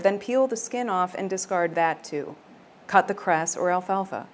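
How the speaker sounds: reading a recipe like a romance line; mock-serious recipe reading; deadpan recipe read. Shown as a demonstration. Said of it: "the text is not gonna match the tone at all".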